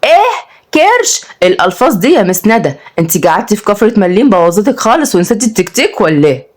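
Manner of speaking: lightly voiced mischievous child answering back; cheeky kid. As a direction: tease the teacher with mock offence. Cheeky boy mocks the teacher.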